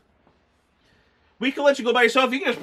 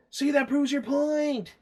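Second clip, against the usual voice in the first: mock voice; 6 semitones higher, 5 dB quieter, slower than usual. Mock reply to the movie.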